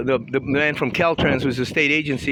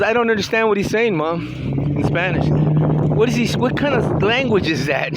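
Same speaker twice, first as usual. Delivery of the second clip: mocked complaint; 5 semitones higher than usual. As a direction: mimic a confused woman's raised, higher voice. Mocking a complaint heard in church.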